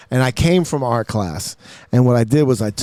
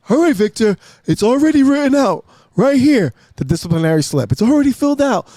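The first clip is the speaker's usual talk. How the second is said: put-on much higher, smug old-man sneer; high gloating teacher voice; Mister Burns teacher; 9 semitones higher, 3 dB louder than usual. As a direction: relish handing over the detention slip. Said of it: "He looked like Mister Burns".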